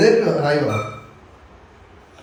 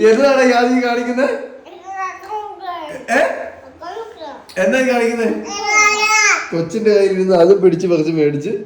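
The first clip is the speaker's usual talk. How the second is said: higher pitched laughing tease; playful teasing; 11 semitones higher than usual. Real, not acted. Mother teasing toddler on the couch, laughing mock scold. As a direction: giggle while scolding him in fun.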